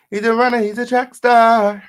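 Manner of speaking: loud mocking hype about a runner; hype shout. Real, not acted. Creator roasting a rapper to chat, loud mock hype. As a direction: shout it up high like a hype man.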